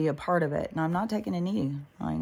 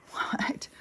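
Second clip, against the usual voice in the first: hushed whisper of disbelief; incredulous whisper; 6 dB quieter than usual. Real, not acted. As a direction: whisper it like it's absurd. Mocking giving up on life.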